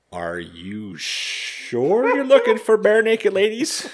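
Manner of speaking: high, slow, laughing disbelief; incredulous disbelief. Retold or imitated. Clerk asking a mom, disbelieving and half laughing. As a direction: stretch it out like you can't believe the request.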